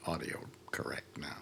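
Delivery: whispering. Real, not acted. Fiddling with the audio setup.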